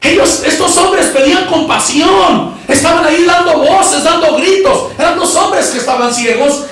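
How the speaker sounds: emphatic, ringing sermon delivery; preaching. Real, not acted. Preacher telling how blind men begged compassion, emphatic preaching. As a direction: proclaim the story to a congregation.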